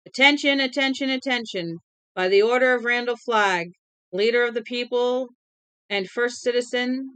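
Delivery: piercing official decree; high proclaiming voice. Acted. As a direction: cut through the noise like a buzzsaw. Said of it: "in a high voice that sliced through".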